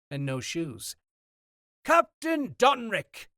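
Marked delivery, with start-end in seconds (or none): 1.8-3.3 put-on loud high hail across the wharf with a heavy accent; calling out. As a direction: shout it out warmly to the captain. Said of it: "he called".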